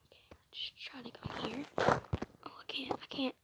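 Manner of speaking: whispering while hiding; hushed. Real, not acted. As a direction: keep it secret, very soft whisper. Hiding from the seeker.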